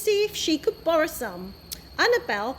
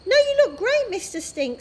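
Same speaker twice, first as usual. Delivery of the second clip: put-on excited child; 8 semitones higher, 4 dB louder than usual. A narrator's reading. Annabelle voiced, excited.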